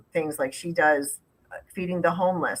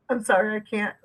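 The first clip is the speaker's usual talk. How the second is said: helpless laughter through the words; can't hold it together, laughing; 2 semitones higher than usual. Real, not acted. Breaks up laughing mid-conversation.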